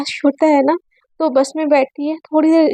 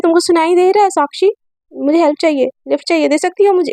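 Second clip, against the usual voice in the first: angry; 3 semitones higher than usual. Acted. Sunaina demanding a lift from Sakshi, mildly angry. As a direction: snap at her, only half in earnest. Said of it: "एकदम गुस्से में बोलती है".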